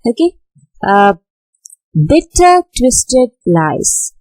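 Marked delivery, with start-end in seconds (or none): 1.9-4.1 "bitter" high, "twisted" lifted, "lies" falling; strong high "bitter", raised "twisted", weaker falling "lies"; stressed-unstressed pattern. Shown as a demonstration. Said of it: "twisted is again stressed".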